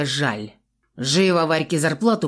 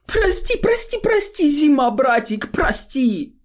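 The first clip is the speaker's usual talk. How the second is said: very high, wailing, slow pleas; tearful begging; 10 semitones higher than usual. A narrator's reading. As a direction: sob out the apology. Shopkeeper begging again.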